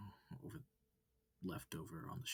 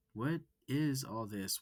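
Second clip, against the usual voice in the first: louder, pressing; loud alarmed question; 5 semitones higher, 7 dB louder, slower than usual. Acted. Student demanding of the wolf, loud and alarmed. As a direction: push the question out. First frantic ask.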